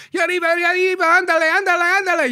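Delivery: very high-pitched mock excited yelling; imitated crew screaming. Smuggler mimics the crew screaming as they pull away, high mock yell. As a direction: whoop it up like a cheering boat crew. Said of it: "hanging off the side of the boat screaming".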